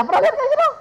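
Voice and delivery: high, mocking disbelief; incredulous. Real, not acted. Preacher mocking idea of an obedient child, high scoff.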